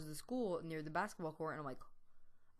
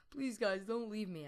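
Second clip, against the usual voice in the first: mock tearful plea, higher and louder; near-tears pleading; 4 semitones higher, 3 dB louder than usual. Scared friend begging the others to stay, imitated near-tears plea. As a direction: plead as if about to cry, lightly acted. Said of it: "practically about to start crying".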